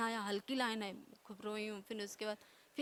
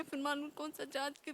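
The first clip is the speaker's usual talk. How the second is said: usual speaking voice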